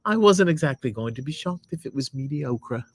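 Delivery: lightly voiced lady reading a review; put-on lady voice. Husband reading his wife's review aloud, put-on lady voice. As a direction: read it as a lady, measured. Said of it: "you have to be a lady".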